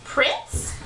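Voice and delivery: put-on slow, croaky old witch; croaking witch. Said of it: "croaked the witch".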